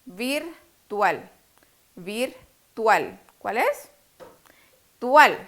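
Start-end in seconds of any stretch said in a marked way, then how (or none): 0.0-3.2 "Virtual" as "Vir, tual", twice; testing the stressed syllable. Shown as a demonstration. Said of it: "cuál de estas dos sílabas es la sílaba tónica". 5.0-5.4 "Tual" punched out loud; stressed syllable isolated. Shown as a demonstration. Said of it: "cuál de estas dos sílabas es la sílaba tónica".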